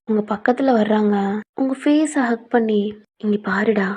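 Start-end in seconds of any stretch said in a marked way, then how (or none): 3.2-3.9 soothing. Acted. Mother-in-law comforts scared girl.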